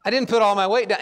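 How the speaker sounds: re-deliver the joke's tag line with a grin; punchline retold with a laugh. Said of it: "I'm just gonna quit the jokes".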